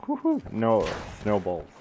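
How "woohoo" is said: high, loud victory whoop; excited cheer. Real, not acted. Gamer cheering a kill, high loud whoop.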